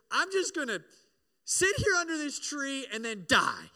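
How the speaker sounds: dramatic Elijah. Retold or imitated. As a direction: sulk like a self-pitying prophet. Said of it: "the most dramatic emo thing".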